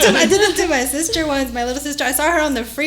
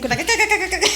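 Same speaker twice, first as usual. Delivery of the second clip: rapid, high-pitched chicken clucks; chicken clucking; 6 semitones higher, 4 dB quieter than usual. Retold or imitated. Explaining playing chicken in Texas, playful clucking. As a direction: imitate a clucking chicken while joking. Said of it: "Literally look like chickens".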